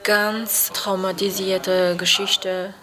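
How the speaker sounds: real struggle for words; halting, with pauses before hard words; um Worte ringend. Real, not acted. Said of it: "muss sie um Worte ringen". (stockend, nach Worten ringend)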